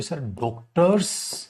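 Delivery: student answer. Retold or imitated. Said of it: "तो आप करोगे".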